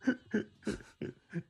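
high, wailing fake sob; hammed-up pretend crying. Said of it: "I'm pretending to cry".

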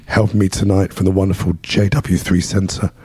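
losing his voice, hoarse and strained; hoarse, worn-out voice. Real, not acted. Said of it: "Lost my voice".

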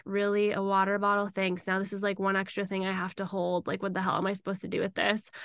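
a touch of retold bitterness; bitter sarcasm. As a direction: sneer at the gift under your breath. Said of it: "I was just so bitter and mad".

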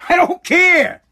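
I don't care shouted high and loud; angry shout. Real, not acted. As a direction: bark it out, fed up. Escalating angry repetition.

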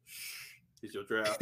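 secretive hushed whisper. Retold or imitated. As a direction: hush it like passing contraband. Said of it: "They're just like".

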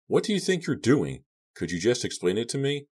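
high-pitched, exasperated questioning; incredulous, strained protest; indignant demand. A narrator's reading. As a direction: demand an explanation, voice pitched right up. Tied-up captive demands explanation.

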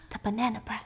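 gasp, then alarmed realization; sudden alarm. Real, not acted. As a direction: gasp as it hits you. Sudden gasp, remembering bread.

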